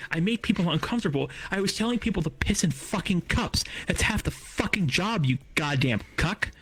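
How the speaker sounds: high-pitched, indignant rant; worked up and protesting, pitch jumping up; heated. Real, not acted. Fired worker protesting to his bosses, heated. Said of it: "I got a little heated there".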